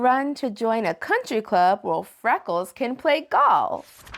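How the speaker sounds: lilting, rhyming story narration; picture-book read-aloud. A narrator's reading. Host reads a love promise book to kids, lilting read-aloud. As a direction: read it to children, landing each rhyme.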